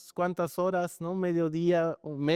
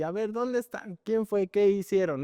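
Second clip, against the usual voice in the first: higher-pitched mock stern questions to the dogs; mock scolding; 3 semitones higher than usual. Owner pretending to scold the naughty dogs, mock stern. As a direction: play the pretend angry owner hunting for culprits. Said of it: "mi papel de regaño".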